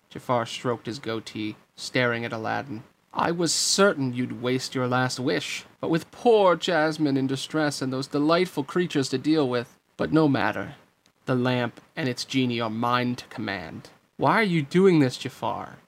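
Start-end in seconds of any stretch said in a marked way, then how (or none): 3.1-13.9 measured, gloating schemer; smug villain. Acted. Jafar gloats to Aladdin over the lamp, smug. 14.2-15.8 raised, louder challenge; demanding. Acted. Aladdin confronts Jafar over the stolen lamp, demanding. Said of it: "Aladdin demanded".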